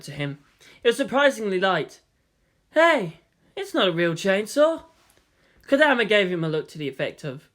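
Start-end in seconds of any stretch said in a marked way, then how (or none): 2.7-4.8 surprised. Acted. Makoto surprised prop fake.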